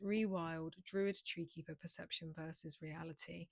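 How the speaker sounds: hoarse, fading voice; losing voice. Real, not acted. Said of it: "Oh, I'm losing my voice".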